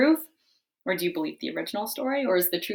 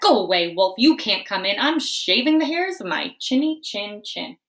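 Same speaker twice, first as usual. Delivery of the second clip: yelling; 2 semitones higher, 6 dB louder than usual. Acted. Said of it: "He yelled back".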